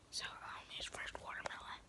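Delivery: ASMR eating whisper. Real, not acted. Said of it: "back to whispering".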